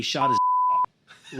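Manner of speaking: laughing through the words, slow; can't hold back the laugh. Real, not acted.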